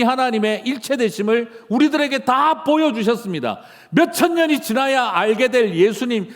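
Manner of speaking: impassioned Korean sermon delivery; full-force preaching. Acted. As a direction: proclaim it like a revival preacher.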